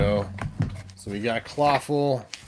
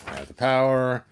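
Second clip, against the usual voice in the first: He-Man heroic recitation; 3 semitones higher than usual. Pretend. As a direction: declaim it like the cartoon's opening. Reciting He-Man's transformation speech.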